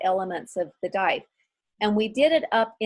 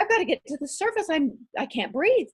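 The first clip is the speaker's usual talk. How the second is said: panicked rush; 6 semitones higher than usual. Retold or imitated. Retold panic rushing to surface.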